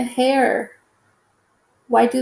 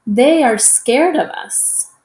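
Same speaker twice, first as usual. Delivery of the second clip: louder, with real feeling on the exclamation; more emotion; 3 semitones higher, 5 dB louder than usual. Shown as a demonstration. Teacher reading the exclamation line to kids, with feeling. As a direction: read it like the exclamation mark means it. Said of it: "say it with more emotion".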